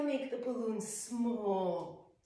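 "small" stretched long and soft, slowly; slow soothing "small", stretched out; slow drawn-out exhale. Shown as a demonstration. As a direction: let the word "small" drain away slowly like air. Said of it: "And as you exhale".

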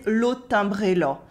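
rural Eastern French "là" rounded towards "lo"; slight Eastern France accent, A of "là" turned to O. Shown as a demonstration. French teacher copying the waitress's Eastern French accent, "là" said like "lo". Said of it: "the A sounds more like an O".

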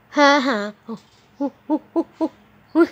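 excited high yelps. Real, not acted. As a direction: yelp with excitement. Excited jump.

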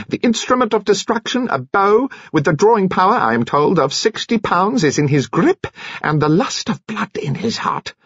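put-on high-pitched, theatrical old-fashioned orator; high, mannered storytelling with relish; eccentric Mister Finn. A narrator's reading. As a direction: declaim it grandly, pitched well up. Narrator voices eccentric Mister Finn.

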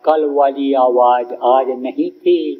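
slow, gentle mother explaining; a mother calmly telling her child why she stayed; gentle mother's reply. Retold or imitated. Mother gently tells her son why she did not come, slow and calm. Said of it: "तब माँ ने धीरे से कहा".

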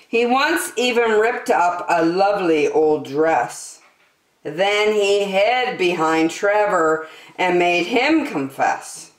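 put-on lively storybook reading for kids; story narration. A narrator's reading. The speaker reading a rhyming story to young listeners, animated storybook voice. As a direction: read it like a bedtime picture book, bouncy rhymes. Reads picture book to children.

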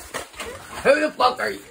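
slow, high angry demand. Acted. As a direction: drag out the angry question. Slow, high, far outburst.

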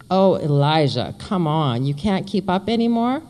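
teasing, playful taunt. Acted. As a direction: tease him for lagging behind. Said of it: "Mary taunts me".

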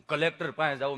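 low, halting with stuck hums; imitated tongue-tied patient; stammering friend. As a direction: struggle into each phrase. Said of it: "જીભ જલાય, સોંટે અટકે".

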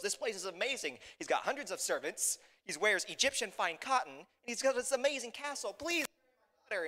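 high, gushing royal admiration; impressed, eager king. Acted.

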